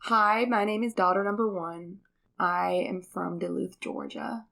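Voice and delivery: a mild put-on American accent, upbeat. Shown as a demonstration. Daughter shows dad her American accent, lightly put on. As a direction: show off a convincing Georgia American accent. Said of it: "can you do an American accent".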